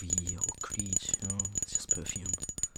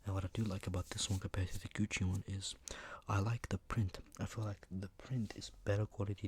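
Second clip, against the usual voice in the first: ASMR whisper. Acted. Reviewing perfume for ASMR viewers, whispered. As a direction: breathe the words out like a secret.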